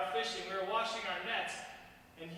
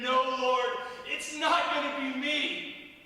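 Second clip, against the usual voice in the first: vehement denial; 2 semitones higher, 5 dB louder, slower than usual. Retold or imitated. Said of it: "I immediately said".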